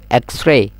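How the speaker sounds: এক্সরে in two syllables, "eks-rey"; corrected X-RAY. Shown as a demonstration. Teacher modelling for students, এক্সরে as "eks-rey". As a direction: run x straight into r in এক্সরে. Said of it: "কি হইবেন".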